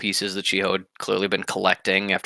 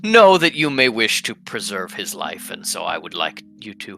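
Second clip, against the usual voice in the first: courteous assassin; 2 semitones lower than usual. Acted.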